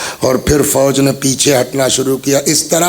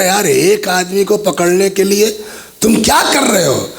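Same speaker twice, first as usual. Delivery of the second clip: higher, exasperated scolding of his soldiers; angry governor; 6 semitones higher than usual. Acted. Ibn Ziyad scolding his men for failing, angry and higher. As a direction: rise in pitch as the anger grows. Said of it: "ابن زیاد کو غصہ آ گیا".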